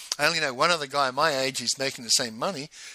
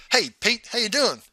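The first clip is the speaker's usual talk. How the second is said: cheery call across a hotel foyer, pitched up; 8 semitones higher, 4 dB louder than usual. Retold or imitated. Old colleague calls out to Pete across the foyer, loud friendly hail. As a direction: hail a workmate from a distance, bright and raised.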